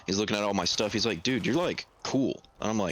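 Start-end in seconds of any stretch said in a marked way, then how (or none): 1.2-2.4 higher-pitched, imitated impressed coworker; imitated admiration, pitched up. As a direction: quote a friend's admiring realization. Coworker impressed by speaker's belongings.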